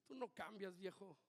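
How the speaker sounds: scornful wife. Retold or imitated.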